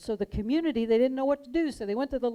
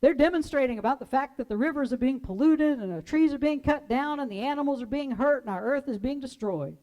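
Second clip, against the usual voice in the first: called back; 4 semitones higher, 5 dB louder than usual. Retold or imitated. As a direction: answer across the block, fading. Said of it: "Another voice calls back".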